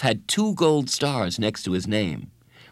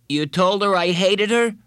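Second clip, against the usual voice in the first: higher, louder incredulous question; shocked question; 10 semitones higher, 5 dB louder than usual. A narrator's reading. Bradley to friend who told the counselor, shocked. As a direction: ask it in rising disbelief.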